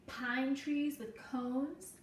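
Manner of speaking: gentle storybook read-aloud for a class; reading to children. Acted. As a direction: tell the story slowly to little listeners. Reading picture book to class.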